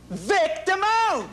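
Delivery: drawn-out, high, starstruck shout of the name; starstruck reveal. Acted. Showing the visitor the plaque, slow and starstruck. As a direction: savor the name like meeting a hero.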